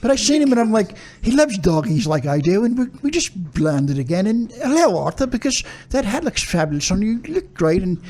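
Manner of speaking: badly faked English accent. Shown as a demonstration. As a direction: attempt a British accent, slipping in and out. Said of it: "do your English accent".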